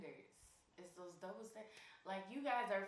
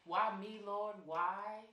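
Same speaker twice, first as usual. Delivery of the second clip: louder, mock-anguished cry to the heavens; Tyler Perry style drama; 7 dB louder, much slower than usual. Cheated-on man wailing to God, hammed-up melodrama. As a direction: ham up a heartbroken man begging the Lord. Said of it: "Now you playing Tyler Perry".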